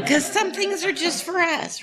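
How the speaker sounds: a real giggle about a private secret; amused, sharing a little secret with the room; laughing. Real, not acted.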